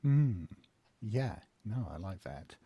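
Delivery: ordinary talk, nothing marked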